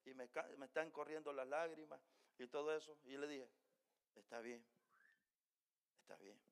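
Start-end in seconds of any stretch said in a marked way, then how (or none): 4.1-4.6 tearful, quiet. Retold or imitated. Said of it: "yo estoy llora y llora". 6.0-6.4 fading into near-silence through tears; a tearful whisper of a reply; tearful, nearly inaudible. Retold or imitated. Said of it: "yo estoy llora y llora".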